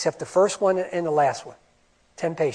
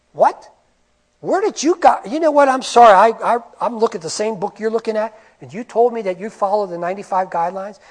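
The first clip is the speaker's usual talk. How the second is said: incredulous outrage; 3 semitones higher, 4 dB louder than usual. Acted. Mock argument with auditors.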